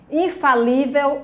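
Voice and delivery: "Infalível" with weight on lí; teacher's demo of "Infalível", stressed on lí. Shown as a demonstration. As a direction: model "Infalível", leaning on the syllable lí. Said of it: "a sílaba tônica li".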